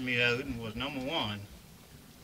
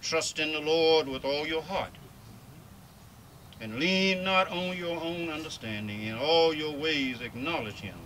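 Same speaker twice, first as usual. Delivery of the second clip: scripture reading. Acted. Reads scripture aloud.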